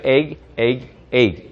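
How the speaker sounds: "egg" with a clipped, closed g; closed egg ending. Shown as a demonstration. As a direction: close off the end of "egg" firmly. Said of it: "이렇게요".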